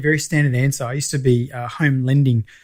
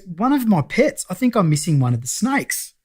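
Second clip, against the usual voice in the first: higher-voiced imitation of the mechanic; nervous client; 5 semitones higher than usual. Snake owner explaining to alarmed lender, sheepish and high.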